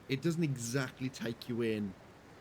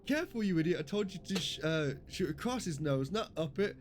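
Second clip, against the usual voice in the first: higher-pitched mock scolding; angry movie officer; 5 semitones higher than usual. Officer yelling at the gunner in Spaceballs, mock angry. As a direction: snap at the gunner like an exasperated officer. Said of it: "He's like".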